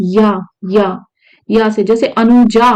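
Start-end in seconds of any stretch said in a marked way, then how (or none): 2.1-2.7 अनुजा said slowly, the जा drawn out; final आ shown. Shown as a demonstration. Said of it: "आ, ठीक है". (अनुजा का आख़िरी आ खींचकर)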